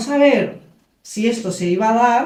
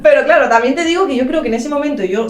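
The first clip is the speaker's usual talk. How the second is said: laughing; 5 semitones higher, 4 dB louder than usual. Real, not acted. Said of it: "laugh heard".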